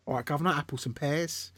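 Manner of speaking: mock cockney patter; playful cockney London caricature; London accent. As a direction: put on a stereotype London barrow-boy accent. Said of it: "My London accent".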